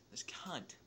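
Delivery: hissed under the breath; a whispered curse at the friend who broke them; whispered insult. Real, not acted. Telling the story, whispers a curse about the friend.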